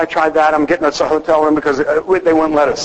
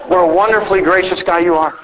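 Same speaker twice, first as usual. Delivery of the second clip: mock self-praise; 2 semitones higher than usual. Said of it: "I am patting myself on the back".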